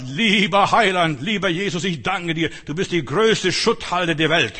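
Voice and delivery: loud, slow fervent prayer. Retold or imitated. Converted hippie praying aloud to Jesus, loud slow fervour. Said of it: "streckt die Hände nach oben und sagt".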